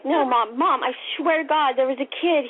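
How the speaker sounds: retold kid's insistence; earnest protest. Child swearing it was true.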